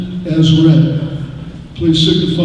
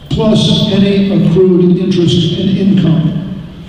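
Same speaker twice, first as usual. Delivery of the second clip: "plus any accrued interest and income" slowed and leaned on; emphasize changed words; 3 semitones higher, slower than usual. Shown as a demonstration. Moderator stressing changed wording to voters, slow and deliberate. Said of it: "try to emphasize the words that have changed".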